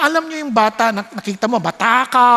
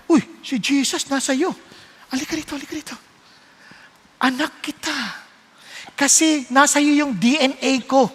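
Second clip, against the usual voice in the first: warm welcome. Pretend. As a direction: beckon the child in tenderly. God welcoming child.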